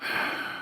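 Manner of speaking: quiet weary sigh; soft sigh. A narrator's reading. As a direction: let out a tired breath. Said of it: "I sighed".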